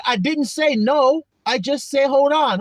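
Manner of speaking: frustrated parent explaining; exasperated parent. Retold or imitated. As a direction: plead with the screaming kid.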